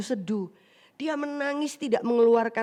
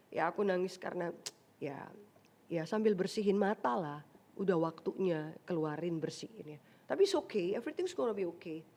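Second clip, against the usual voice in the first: mock man mumbling; 6 semitones lower, 7 dB quieter than usual. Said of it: "Nggak akan, Bapak Ibu Saudara".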